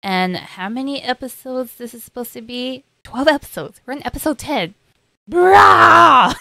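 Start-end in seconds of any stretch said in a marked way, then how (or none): 3.8-4.8 higher, stressed TEN falling; alarmed realization, pitch up; dawning dismay. Real, not acted. Realizing few episodes left. 5.3-6.3 anguished bruh. Real, not acted. Dismay at episode count.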